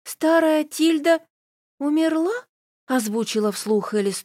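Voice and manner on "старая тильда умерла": stunned high disbelief; shocked. A narrator's reading. Shocked question about death.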